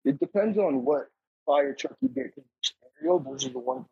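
buzzy glitchy call audio; choppy connection cutting out; breaking up call audio. Real, not acted. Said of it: "you're breaking up".

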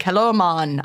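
rough attempt at a Jamaican accent. Shown as a demonstration. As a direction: try a quick amateur Jamaican accent. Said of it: "I can only do a Jamaican accent".

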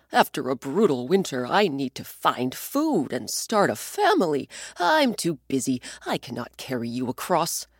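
a hint of a hurried animal brushing him off; busy reindeer. Reindeer refusing to carry the old man, lightly voiced.

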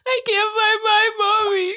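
put-on high, slow little-kid voice; whimpering lost child, slowly; baby voice. Lost four-year-old tells a stranger she can't find mommy, slow high baby voice. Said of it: "I don't wanna talk like a baby".

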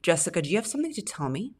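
quick, sing-song scolding question; mothering tone. Retold or imitated. Asking a girlfriend in a mothering, scolding way. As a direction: play a mum grilling her child. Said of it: "talk to a girlfriend like that".

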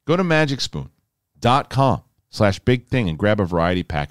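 upbeat host-read cereal ad; breezy read of a sponsor spot. Acted. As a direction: sell it like a friendly podcast ad.

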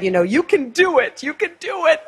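a hint of mom's upbeat voice; mom's encouragement. Mom sending her daughter off to the interview, lightly voiced and encouraging.

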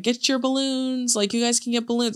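lightly voiced toy store greeter; balloon seller. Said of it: "she's like".

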